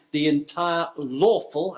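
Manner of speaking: lawful slowed and leaned on; lawful drawn out so it lands as the key word; stress on lawful. Shown as a demonstration. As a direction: give the word lawful slow, deliberate weight. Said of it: "I emphasise the word lawful".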